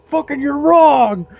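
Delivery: high, loud, slow mock rant; mock scolding. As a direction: scold an elf-ear wearer slowly.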